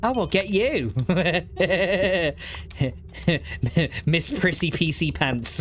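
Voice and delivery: high, teasing mock menace; mock threat. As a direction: playfully threaten the viewer, high and slow on the name. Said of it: "No, I'm joking".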